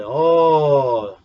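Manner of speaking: mock-angry French-accented father, pitch climbing high. Father threatening his son over the wrecked car, French accent. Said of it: "with his little French accent".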